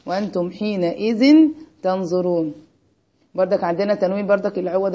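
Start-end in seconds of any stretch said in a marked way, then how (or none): 0.0-2.5 slow, measured verse recital; teacher reciting an example verse slowly; Quranic recitation. Shown as a demonstration. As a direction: recite it slowly, holding the long vowels. Reciting the verse again for class.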